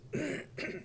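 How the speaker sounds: quiet breathy gag; choked unvoiced retch; dry heaving. Real, not acted. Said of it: "gagging in the mic".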